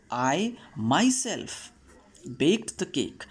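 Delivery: myself slow and stretched, set apart; stress on myself. Shown as a demonstration. Teacher reading the example, myself stressed. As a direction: lean on myself, pause after it. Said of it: "is emphasizing, there is an emphasis, stress".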